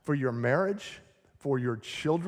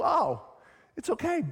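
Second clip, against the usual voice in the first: mock worldly voice; 3 semitones higher than usual. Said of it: "they're telling you".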